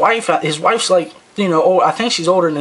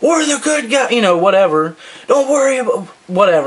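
put-on screaming voice at a higher pitch; 4 semitones higher than usual. Telling a story, the speaker quotes a man screaming from the sidewalk, retelling a scream. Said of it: "he's screaming".

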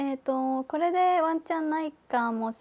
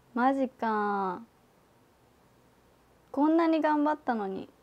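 on the verge of tears. After all that practice, the speaker reacts to the result, on the verge of tears. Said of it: "泣きそう。".

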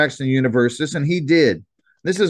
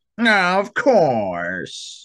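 heavily sarcastic, swooping, dripping sarcasm; 3 semitones higher than usual. Uncle Verge replies to Jack's plan to figure it out later, dripping with sarcasm. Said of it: "his voice dripping with sarcasm".

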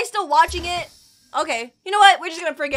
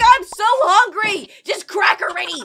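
put-on cranky, slow, drawn-out angry grumble; 3 semitones higher, 4 dB louder than usual. The speaker acts out what another figure is saying, mock-angry. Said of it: "you're just so angry".

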